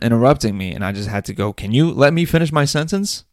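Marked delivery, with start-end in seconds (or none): 1.5-3.2 annoyed snap. Retold or imitated. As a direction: cut them off, irritated. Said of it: "Probably exactly in that tone".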